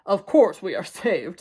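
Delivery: assured. Acted. Mister Watson answers with assurance.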